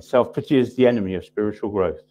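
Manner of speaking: "the enemy" stressed with a long falling close; emphatic restatement. Shown as a demonstration. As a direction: hammer home "self-pity is the enemy". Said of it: "I'll say it again".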